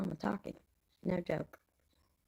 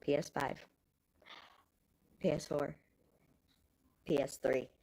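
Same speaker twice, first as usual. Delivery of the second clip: whisper; 6 semitones lower than usual. Real, not acted. Counting down in a whisper.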